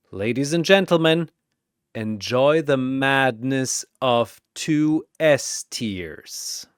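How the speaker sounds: boxing announcer calling fighters; arena announcer. Acted. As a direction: hype each fighter like a ring announcer. Announcer addresses crowd.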